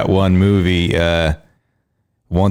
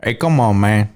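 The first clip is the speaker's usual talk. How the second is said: Cuban-tinged gangster voice; Tony Montana accent. Shown as a demonstration. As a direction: try a Texan line, land on Scarface. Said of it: "that was Tony Montana".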